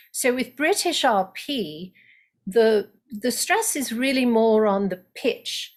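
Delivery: British RP, stress carried by pitch; British RP demo. Shown as a demonstration. Coach demos British RP word stress with pitch. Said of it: "So if I'm stressing a word like I just did".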